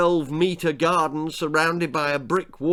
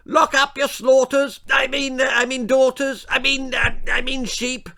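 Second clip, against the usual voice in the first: high, panicky aristocratic lady; flustered lady; 12 semitones higher, 5 dB louder than usual. Acted. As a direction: babble in a fluster, tripping over words.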